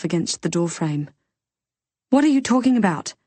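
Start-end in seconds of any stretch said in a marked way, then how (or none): 2.1-3.1 high, fast, louder disbelief; a frail mother's sharp shocked outburst; mother caught off guard, demanding an answer. Acted. Mother hears engagement is off.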